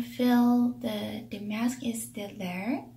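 speaking with fingertip on lip; touching lips while talking. Real, not acted. Seen 3: Fingertip rests on lower lip while talking, drops away by 12.8.

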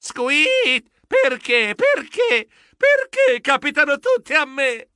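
very high, hammed-up lament; despairing wail. Geronimo bemoans having to give his friend a lift, despairing. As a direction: wail theatrically at your rotten luck.

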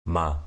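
a clear, unstressed "Ma", one syllable; Ma said as a demo. Shown as a demonstration. Tutor demonstrating the distal vowel, clear "Ma". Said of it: "I call this a distal position".

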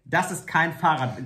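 strict but without menace; mildly stern, matter-of-fact German. Shown as a demonstration. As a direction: demonstrate a firm German correction. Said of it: "you just have to say it strict".

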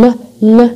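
"ل" as a heavy, velarized dark L. Shown as a demonstration. Teacher demonstrating American dark L for students, heavy "ل". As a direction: pull the tongue back for a thick "ل". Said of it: "ال dark L هي صوت".

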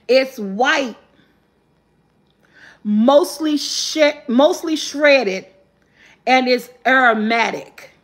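slow, spaced-out clue reading. Real, not acted. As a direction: draw out each clue for the players. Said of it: "I'm trying to read it slow".

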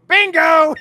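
loud, high-pitched shout; triumphant exclamation. Retold or imitated. Doctor confirming the patient's guess, triumphant shout. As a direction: call it out like a winning guess.

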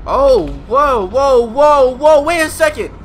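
loud whoas climbing in pitch; alarmed. Real, not acted. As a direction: try to halt it, rising alarm. Sudden danger in the game.

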